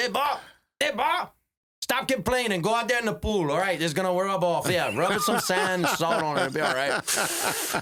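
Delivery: put-on old-school fatherly dad voice. Retelling how his dad called from his chair: imitating his dad. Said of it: "be like this".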